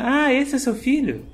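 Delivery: high slow surprised woman; lightly voiced surprised receptionist.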